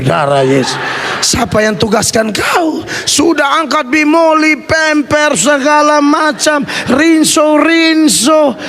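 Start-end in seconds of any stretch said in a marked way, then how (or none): 1.2-8.6 mock scolding. Father scolding his son for loading the cart, mock angry. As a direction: scold the boy half in jest.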